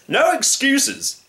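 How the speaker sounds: high, drawn-out refusal; slow, emphatic storybook hunter; stern blustering hunter. Acted. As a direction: dismiss the plea pompously. Hunter rejects the lion's plea.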